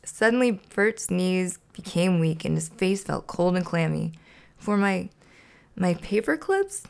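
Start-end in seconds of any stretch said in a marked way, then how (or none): 4.6-6.8 halting, rising disbelief; stunned dismay. Acted. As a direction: falter as the bad news sinks in. Hiding heartbreak over gift.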